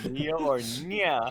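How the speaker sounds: slow, high, cutesy name; silly cat voice. Acted. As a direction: stretch it out like a cat girl.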